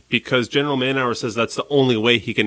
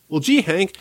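higher-pitched imitation of a cartoon boy; gee-whiz boy character, pitched up; Dean; 5 semitones higher than usual. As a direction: play an awed cartoon boy. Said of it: "Specifically when Dean sees the United Nations".

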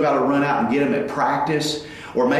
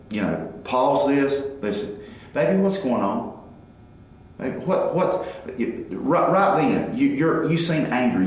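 calm and gentle. Retold or imitated. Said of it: "you take a time out and you go".

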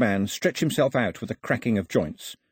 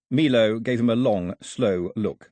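ordinary delivery

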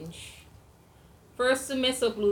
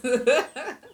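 corny dad laugh; 6 semitones higher, 10 dB louder than usual. Real, not acted. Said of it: "I'm already laughing at my own jokes".

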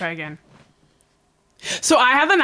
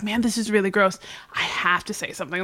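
soft, lowered retold complaint; quiet grumble; 3 semitones lower, 7 dB quieter than usual. Customer deciding to speak up, quietly grumbling to herself. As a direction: grumble privately, dropping away at the end.

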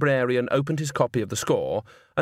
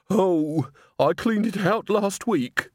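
put-on higher, slow old voice; nervous old woman; 9 semitones higher, slower than usual. A narrator's reading. Missus Plinge nervously deflects Nanny's offer, higher and slow. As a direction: fob her off politely.

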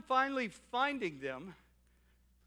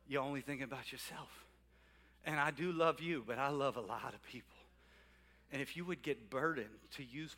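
lower, softer voice of God; God's low, soft rebuke; God speaking; 7 semitones lower, 6 dB quieter than usual. Acted. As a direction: speak gently as God to his child. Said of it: "And God's saying".

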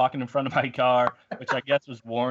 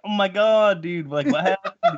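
higher-pitched retold alarm; mock shock; 6 semitones higher than usual. Driver to the man he just hit, mock shocked. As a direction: imitate a stunned, urgent reaction.

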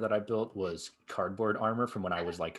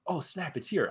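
higher-pitched delighted surprise; mildly excited quote; retold excitement; 7 semitones higher than usual. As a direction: act out spotting a long-awaited delivery. Retold excitement at box arriving.

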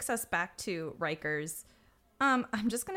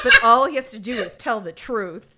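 laughing; 3 semitones higher, 13 dB louder than usual. Real, not acted. Laughing through retold quote.

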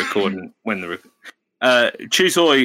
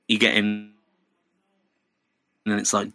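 ordinary talk

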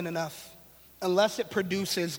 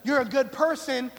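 James talking blunt; 3 semitones higher than usual. Retold or imitated. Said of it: "He's saying".

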